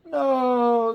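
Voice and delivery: high, loud no; crowd yelling. A narrator's reading. The crowd yelling back at Pip. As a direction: shout it together. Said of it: "the crowd yelled".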